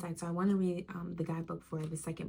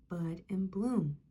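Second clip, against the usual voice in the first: whisper; slower than usual. Acted. Whispered phrase end.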